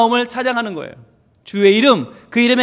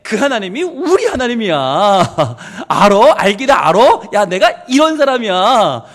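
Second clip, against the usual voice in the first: boasting; 3 dB louder than usual. Acted. David bragging to all creation about his God, playful boasting. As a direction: show off proudly, with a chuckle slipping in. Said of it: "라고 하면서 자랑하는 거예요".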